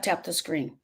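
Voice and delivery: trailing into a soft whisper. Real, not acted. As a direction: hush it down to a whisper. Urging viewers to pray.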